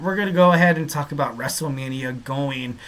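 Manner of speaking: mock French accent on the show plan; hammed-up French accent, mostly on Paris; terrible French accent. Host announcing next segment in a jokey fake French accent. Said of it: "that was a terrible French accent".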